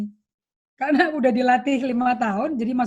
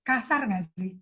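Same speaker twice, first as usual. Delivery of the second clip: retelling her new calm talk with her secretary; calm gentle question; faster than usual. Retold or imitated. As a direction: ask it calmly to the secretary. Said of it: "akhirnya saya ngomong kalem".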